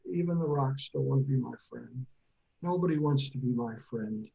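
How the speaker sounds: a touch of gloomy Eeyore, lightly voiced; mopey Eeyore. Eeyore tripping over a rock, mild sad mope. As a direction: sigh it out like a glum donkey. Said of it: "and he's sad".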